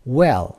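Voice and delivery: "well" with a short open "e"; short vowel. Shown as a demonstration. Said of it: "این صداها کوتاه هستن". («well» با صدای کوتاه)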